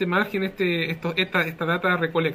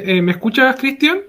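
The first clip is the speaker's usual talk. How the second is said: raised voice over a bad line; to someone hard of hearing; 5 semitones higher, 7 dB louder than usual. Real, not acted. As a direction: call out clearly, checking they hear. Checking audio after connection drop.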